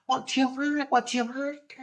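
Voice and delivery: put-on high, near-monotone voice; high-pitched presenter impression; imitated TV presenter. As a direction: mimic her stock question high up. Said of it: "that tatty woman who always says".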